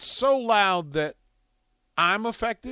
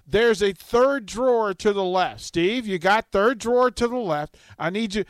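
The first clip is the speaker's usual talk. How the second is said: higher, pushy voice repeating instructions to Steve; mock Bob on the phone; 6 semitones higher than usual. Mimicking Bob barking orders to Steve, higher and insistent. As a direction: play Bob bossing Steve over the phone.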